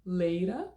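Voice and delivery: LATER with tapped T, ending in an open 'uh'; flapped T, no R. Shown as a demonstration. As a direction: drop the R from LATER, keep the tap. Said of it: "cinco opções".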